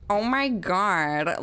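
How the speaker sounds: very drawn-out "Oh my God"; mock starstruck exclamation; fangirl gush. Shown as a demonstration. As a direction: stretch it like a gushing fangirl. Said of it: "say the "Oh my God" thing again, the way you just said it".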